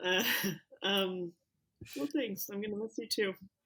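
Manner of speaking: soft, tearful speech, crying through the words. On their last day, the departing speaker answers a coworker's goodbye, crying while speaking. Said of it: "I'm already crying".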